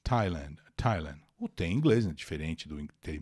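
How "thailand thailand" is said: Thailand begun with an ordinary T, silent H; plain T sound. Shown as a demonstration. Teacher correcting a common TH mistake, Thailand with plain T. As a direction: say Thailand as "Tie-land", lower-pitched. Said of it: "o som de T normal".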